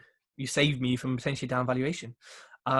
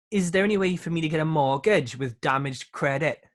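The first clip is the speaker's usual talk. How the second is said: lightly attempted Welsh lilt; amateur go at a Welsh accent; bad Welsh accent. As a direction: read it in an unconvincing Welsh accent. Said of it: "my Welsh accent was bad".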